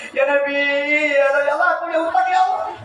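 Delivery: hammed-up wailing plea to the Prophet; half-sung begging of a man in debt; mock pleading prayer.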